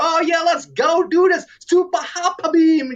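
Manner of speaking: high, hammed-up anime dub voice; random silly voice. Player imitating a game character's English dub, silly high voice. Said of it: "I'm just doing some random ass voices".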